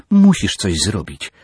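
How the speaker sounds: high, loud insistent demand; a daughter demanding her father act. Acted. Córka żąda od ojca, głośno i stanowczo. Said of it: "zażądała".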